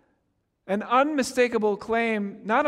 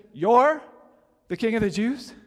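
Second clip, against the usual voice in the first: louder, sneering disbelief; mocking; 2 semitones higher, 4 dB louder than usual. Pilate mocking a bound, beaten Jesus, sneering. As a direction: scoff at the beaten man. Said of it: "he's made a mocking statement".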